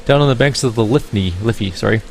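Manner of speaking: put-on bright-toned Irish accent, musical lilt. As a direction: play her as a lyrical Irish gamer woman. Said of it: "I can't place the accent".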